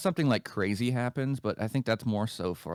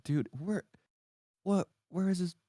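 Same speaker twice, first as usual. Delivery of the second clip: squealing high over a cute puppy; overwhelmed by cuteness; 10 semitones higher than usual. Real, not acted.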